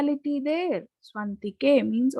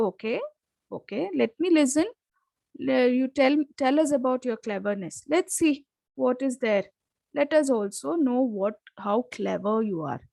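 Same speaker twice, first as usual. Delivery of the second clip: sarcastic taunt. Retold or imitated. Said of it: "It is very, uh, sarcastic".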